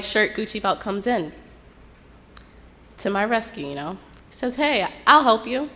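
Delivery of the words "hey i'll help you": slow, higher, put-on friendly guy voice; slick helpful guy. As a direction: play the smooth stranger, drawn out. Quoting the man who helps her.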